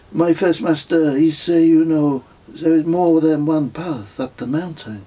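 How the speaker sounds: French pilgrim pronouncing wisdom sagely; pilgrim repeating his master's saying, French accent. A narrator's reading. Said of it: "in a strong French accent".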